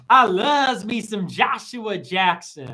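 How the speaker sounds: slow, drawn-out gushing parody; lightly voiced besotted wife; a hint of a doting wife bragging; mock gushing wife.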